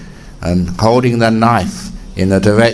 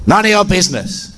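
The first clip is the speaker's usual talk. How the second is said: gruff burglar; 9 semitones higher, faster than usual. Acted. Burglar rebuffs abbot.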